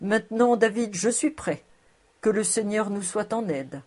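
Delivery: mildly moved, understated delivery; emotional voice. Acted. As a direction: speak with a touch of emotion. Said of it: "en disant d'une voix émue".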